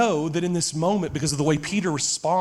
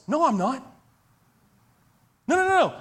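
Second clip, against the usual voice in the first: panicked denial; 7 semitones higher, faster than usual. Acted. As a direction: deny it in a panic. Peter denies in acted scene.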